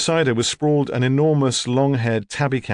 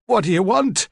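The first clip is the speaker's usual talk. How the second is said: put-on high, insistent old lady; hoarse, rasping old woman; 8 semitones higher than usual. A narrator's reading. Old woman repeating her demand to a detective, rasping. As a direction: insist on an answer in a high elderly rasp. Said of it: "Her voice was hoarse and rasping".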